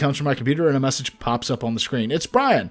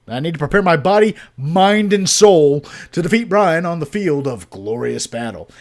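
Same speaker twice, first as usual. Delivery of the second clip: epic battle speech; 4 dB louder than usual. Acted. Dad grandiose battle talk.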